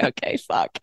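hushed, breathy mock panic under the breath; a quiet, defeated whisper; whispered curse. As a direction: mutter it like he's overwhelmed. Boyfriend overwhelmed by her demands.

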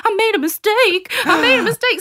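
put-on very high toddler wail; squealed, panicky child voice; hiding child's confession. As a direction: imitate a little kid crying out an admission. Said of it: "hiding behind my skirt going".

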